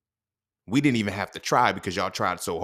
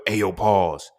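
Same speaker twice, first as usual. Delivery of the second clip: mock loud pause call; 7 dB louder than usual. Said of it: "Well, for".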